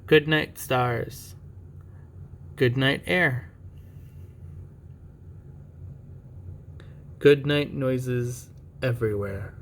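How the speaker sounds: put-on slow, measured reading to children; picture-book reading. Parent reading a bedtime picture book to a child, storytime voice. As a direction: read it out slowly, lingering on each thing. Reads bedtime goodnights aloud.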